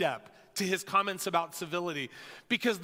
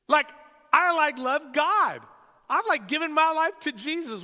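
whiny complaint; 4 semitones higher, 4 dB louder than usual. Retold or imitated. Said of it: "we're going".

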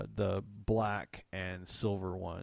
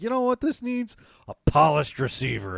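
excited self-quote; 7 semitones higher, 9 dB louder than usual. Retold or imitated. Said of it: "I was like".

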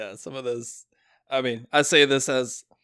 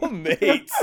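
mock Australian; 4 semitones higher than usual. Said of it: "What are you, Australian now?".

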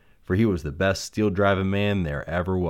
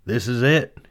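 excited cry; 5 semitones higher, 5 dB louder than usual. Acted. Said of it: "he cried".

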